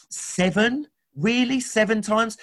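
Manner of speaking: high, disbelieving pitch on each question; incredulous question. Acted. Peter asks Jesus in disbelief, high incredulous voice. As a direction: ask it as if seven is already too many.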